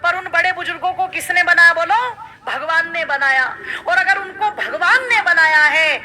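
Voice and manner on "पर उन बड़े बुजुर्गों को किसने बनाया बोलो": high, insistent refrain in the goddess's words; raised pitch, each offering waved aside alike; voiced mother goddess. Preacher speaking as the goddess to devotees, high insistent voice. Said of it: "माँ तो यही कहती है".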